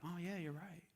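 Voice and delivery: soft, easily convinced crowd; persuaded crowd. Retold or imitated. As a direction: murmur agreement, swayed.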